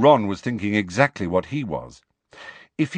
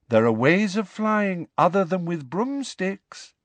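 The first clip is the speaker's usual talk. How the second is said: airy, higher dreamy voice; serene; 10 semitones higher than usual. A narrator's reading. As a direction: float it, utterly unbothered. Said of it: "said Luna serenely".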